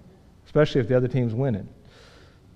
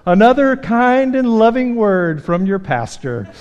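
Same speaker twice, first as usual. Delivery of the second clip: sarcastic; 6 semitones higher, 4 dB louder, slower than usual. Retold or imitated. Son's sarcastic remark from back seat.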